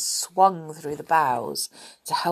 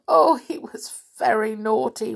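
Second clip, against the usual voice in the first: weeping; 4 semitones higher, 4 dB louder than usual. Acted. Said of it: "wept Silky".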